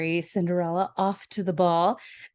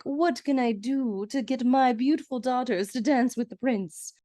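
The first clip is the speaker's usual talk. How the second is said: scheming stepmother; 5 semitones higher than usual. Retold or imitated. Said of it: "Bernadette Peters goes up to Lionel and is like".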